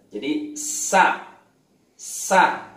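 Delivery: sa with a long, breathy hissing s; drawn-out sa. Shown as a demonstration. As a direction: stretch the s in sa, air flowing out. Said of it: "udah bener". (sa dengan desis panjang)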